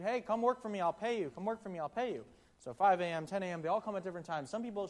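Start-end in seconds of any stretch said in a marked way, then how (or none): 0.0-2.2 calling workers in from the street, raised; mock calling out for hands, a bit higher; calling out hiring. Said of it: "He keeps going around to the street".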